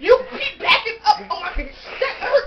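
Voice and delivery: laughing yelp of pain; laughing protest. Real, not acted. Pushed around, laughing protest.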